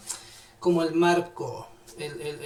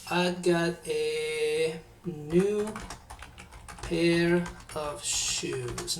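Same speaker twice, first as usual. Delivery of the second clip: slow example; much slower than usual. Shown as a demonstration. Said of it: "Yo les voy a dar un ejemplo".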